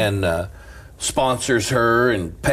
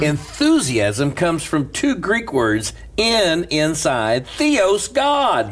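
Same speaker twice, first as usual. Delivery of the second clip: slow teaching; 3 semitones higher, much slower than usual. Shown as a demonstration. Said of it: "teaching word origin".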